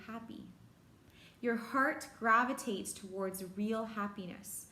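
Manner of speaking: measured poem recital with pauses between lines; poem reading. Acted. Teacher reading a favourite poem to grade fives, measured recital. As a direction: read the poem out deliberately, letting each line settle.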